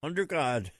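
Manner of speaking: under God set apart by pauses and leaned on; stress on under God. Real, not acted. Host explaining the pledge, stressing the words under God. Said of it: "we emphasize those two words".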